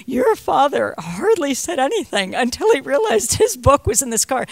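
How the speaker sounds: amused cab driver in disbelief; imitating cab driver. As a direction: marvel at the odd father. Cab driver's amazed remark quoted.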